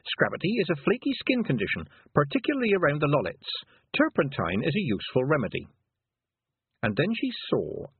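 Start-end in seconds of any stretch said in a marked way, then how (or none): 0.0-5.7 high, recited textbook entry; reading aloud. A narrator's reading. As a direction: read the entry out to listeners. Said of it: "read Tiffany".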